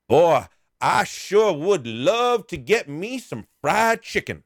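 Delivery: mock beggar angling for chicken. Beggar voiced in retold story.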